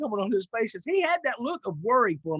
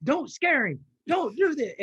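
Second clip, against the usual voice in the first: higher, louder mock panic to himself; inner panic; 6 semitones higher, 4 dB louder, slower than usual. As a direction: scold yourself in a retold moment of alarm. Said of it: "And in my brain, I'm like".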